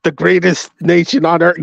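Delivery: mock flag-waving pride; mock patriotic boast. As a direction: proclaim it like a campaign speech.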